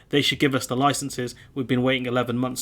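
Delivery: lightly held mock French accent. Quoting the French fisherman, mild French accent. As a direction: keep a hint of French on the quote. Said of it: "do a French accent".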